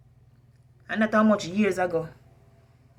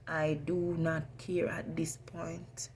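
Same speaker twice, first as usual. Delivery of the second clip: whispering; 7 dB quieter, slower than usual. Real, not acted. Whispered defiance.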